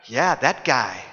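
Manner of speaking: low, falling, matter-of-fact answer; firm confirmation. Acted. Preacher confirms the obnoxious man is a neighbor, firm confirmation. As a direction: settle the objection with a low falling finish.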